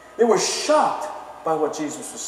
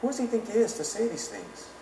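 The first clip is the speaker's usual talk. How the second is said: scoffing townsman; 5 semitones higher than usual. Retold or imitated. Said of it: "and then he says".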